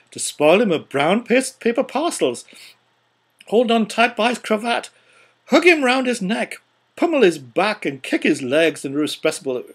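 high, loud and joyful telling; excited, building narration. A narrator's reading. Narrator describing children mobbing the porter, loud excitement. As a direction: let the chaos carry the voice up.

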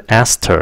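"aster" as asked and her joined in one word; "aster" with H gone, T linked to the vowel. Shown as a demonstration. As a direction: run the T straight into -er in "aster". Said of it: "nó nối với cái âm her".

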